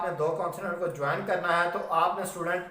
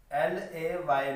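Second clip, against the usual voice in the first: letters spelled out one by one, slowly; slow spelling; much slower than usual. Shown as a demonstration. Teacher slowly spells the word for the class, letter by letter. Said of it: "वो है मेरे पास ले".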